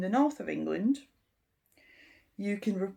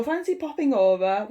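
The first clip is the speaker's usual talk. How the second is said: upbeat invitation; 3 semitones higher, 6 dB louder than usual. Shown as a demonstration. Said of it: "They use pop for everything".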